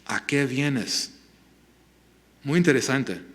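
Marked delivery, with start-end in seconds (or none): 0.1-1.1 slow, gently merciful question; compassionate. Retold or imitated. Jesus answers his betrayer with mercy, compassionate. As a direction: ask slowly, with compassion. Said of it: "él responde con esta misericordia, compasión".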